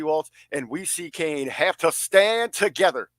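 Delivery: rally the nation, stretched out; mock wrestling promo.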